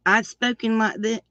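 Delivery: natural country twang; Southern country accent. Shown as a demonstration. Showing the real voice, Southern country accent. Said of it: "going back to this is harder".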